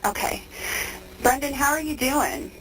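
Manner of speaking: tinny phone-line voices; payphone call. Real, not acted. Recorded phone interview with inmate.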